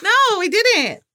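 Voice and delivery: high, giggly, flustered no; embarrassed laughing denial. Real, not acted. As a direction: deny it while blushing and giggling. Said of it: "Why are you turning red?".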